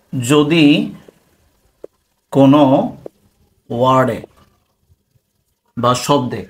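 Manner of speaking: one word at a time, long gaps; dictation. Real, not acted. Teacher giving a definition for notes, dictating. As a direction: dictate slowly, pausing after each word.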